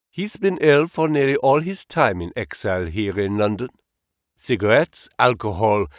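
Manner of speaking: put-on light German accent, sober and regretful; a hint of German, mourning a friend without drama. Engels explains Marx's death to Holmes in a light German accent. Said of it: "with a German accent".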